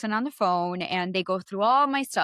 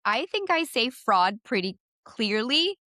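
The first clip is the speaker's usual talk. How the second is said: indignant; 3 semitones higher, slower than usual. Retold or imitated. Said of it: "I have an accent".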